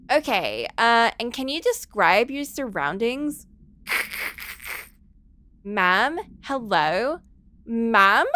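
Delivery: lightly voiced Valley Girl 911 operator; a hint of a bubbly Valley Girl dispatcher. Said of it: "the Valley Girl nine one one operator".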